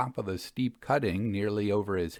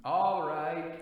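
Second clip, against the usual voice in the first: called reply; 7 semitones higher, 3 dB quieter than usual. Acted. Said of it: "I called down to him".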